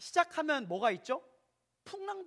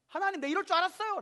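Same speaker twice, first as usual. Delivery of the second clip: mild mock shout; 9 semitones higher, 4 dB louder, faster than usual. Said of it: "계속 소리칩니다".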